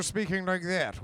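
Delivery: stiff received pronunciation, lips barely moving; uptight BBC English. Shown as a demonstration. Actor contrasting the dubbed elf voice, stiff BBC English. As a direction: clip it like a stiff BBC announcer. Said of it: "where nothing moves, and it was all very B B C".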